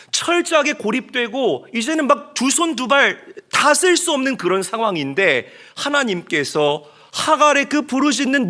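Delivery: loud, high fervent preaching; impassioned sermon climax. Real, not acted. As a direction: drive the point home to the congregation. Preaching at full force.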